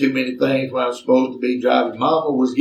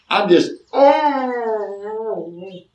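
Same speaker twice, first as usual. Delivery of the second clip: holding in laughter; 8 semitones higher, much slower than usual. Real, not acted. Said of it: "trying not to laugh".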